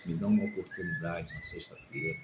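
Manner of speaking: low, soft, confessional telling; hushed recollection. Retold or imitated. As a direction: speak softly as if confessing to God. Retelling his repentant prayer, moved. (relato contrito, em voz baixa)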